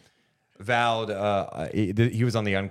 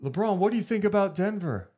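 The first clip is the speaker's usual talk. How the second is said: reporter voice; 10 semitones higher than usual. Pretend. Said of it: "They're interviewing LeBron".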